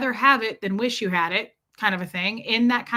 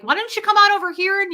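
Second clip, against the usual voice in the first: taunting challenge; 10 semitones higher, 6 dB louder, faster than usual. Retold or imitated. Imagined taunt at angry driver.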